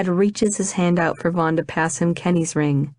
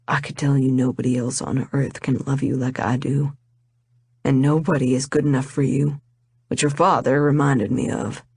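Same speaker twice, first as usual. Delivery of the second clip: a lower male voice, sincere and earnest; lightly voiced lover proposing; 4 semitones lower than usual. Vaughn proposing to Rain at the wedding, lightly voiced sincere man. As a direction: pour your heart out as the man proposing.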